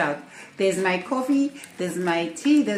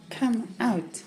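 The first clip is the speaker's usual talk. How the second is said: softer and lower "Come out", "Come" leaned on; soft coax; 3 semitones lower, 10 dB quieter than usual. Real, not acted. To Johnny in the cup, a soft murmured "Come out". Calling the pet out.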